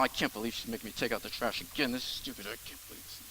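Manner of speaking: grumbling under breath. Retold or imitated. Husband griping privately about trash duty, softly grumbling. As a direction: grumble it quietly so she can't hear. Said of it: "You just grumble and complain".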